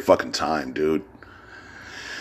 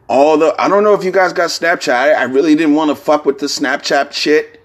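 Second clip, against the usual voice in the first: excited; 7 semitones higher than usual. Real, not acted. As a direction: rush it out all excited. Excited rant about Snapchat.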